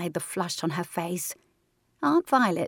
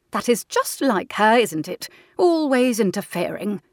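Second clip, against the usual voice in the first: exasperated aunt; 3 semitones higher, 6 dB louder than usual. Acted. Aunt Senna grumbles about Violet.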